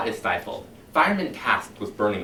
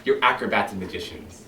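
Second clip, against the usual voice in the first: a smooth, menacing captain talking his men round; silky, sinister fire captain addressing his firemen; Captain Beatty lecturing; 3 semitones higher than usual. Acted.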